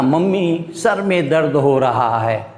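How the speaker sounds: lightly voiced child complaining to mummy; a touch of a sulky kid; a hint of a whiny child. Shown as a demonstration. Child pleading with mummy, lightly whiny. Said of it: "अब देखो इतना लंबा बोले".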